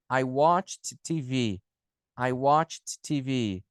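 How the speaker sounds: slow "watched" with a distinct T before "T V"; CH plus T ending. Shown as a demonstration. Teacher translating for students, slow "watched" ending "ch-t". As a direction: separate the CH-T of "watched" slowly. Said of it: "Com C H".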